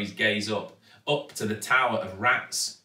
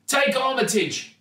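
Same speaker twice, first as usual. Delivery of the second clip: high, raised urgent voice; urgent instruction; 10 semitones higher, 4 dB louder than usual. A narrator's reading. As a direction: call it up to your daughter. Dangling dad hands up the rat.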